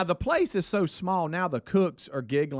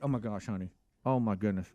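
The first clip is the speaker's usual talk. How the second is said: wife's hushed worried voice, softer; hushed alarm; 7 semitones lower, 6 dB quieter than usual. Retold or imitated. Wife hushes her husband on the street, quiet alarm. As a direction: lean in and whisper the alarm. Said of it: "and Terry said".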